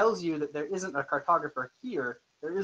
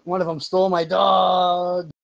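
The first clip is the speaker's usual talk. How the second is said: aggrieved villager; 4 semitones higher, 9 dB louder, slower than usual. Acted. Villager NPC complaint.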